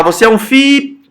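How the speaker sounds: "fi" left hanging high, word unfinished; cut off mid-word. Shown as a demonstration. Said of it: "e parar".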